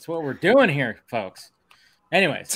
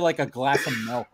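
Cookie Monster voice; 4 semitones lower, 7 dB quieter than usual. Retold or imitated. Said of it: "busted out the Cookie Monster impression".

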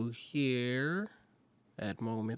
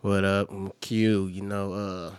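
sexy voice; 9 dB louder than usual. Pretend. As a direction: lay on the charm. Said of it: "Why, why the sexy voice?".

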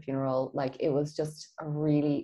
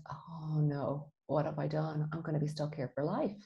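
dismayed; 7 dB quieter than usual. Retold or imitated. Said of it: "And I went".

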